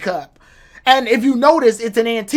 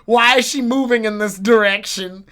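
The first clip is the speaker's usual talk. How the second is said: baffled outburst; 4 dB louder than usual. Retold or imitated.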